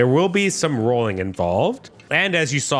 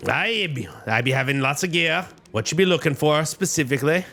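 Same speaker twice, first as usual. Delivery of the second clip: put-on Scottish accent; 2 semitones higher than usual. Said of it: "the classic Scottish accent".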